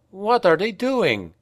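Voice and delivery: put-on baffled young voice; confounded. A narrator's reading. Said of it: "asked Franz, confounded".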